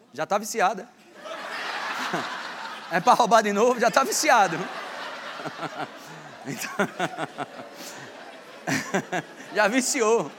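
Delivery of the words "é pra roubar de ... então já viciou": laughing. Real, not acted. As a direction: joke through laughter. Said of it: "rindo do ator viciado". (rindo muito)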